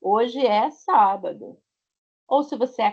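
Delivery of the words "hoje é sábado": slow example answer. Shown as a demonstration. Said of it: "pra falar dos dias da semana".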